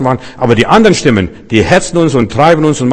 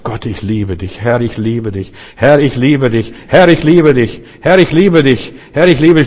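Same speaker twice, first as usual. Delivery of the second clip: building devotion. Acted. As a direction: let each "Herr, ich liebe dich" swell from a hushed start into fervent declaration. Repeated love confession to God.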